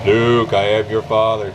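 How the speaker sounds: talking into a spinning fan; shaky vibrating voice. Pretend. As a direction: let the fan blades chop the voice. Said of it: "can't resist talking to a fan".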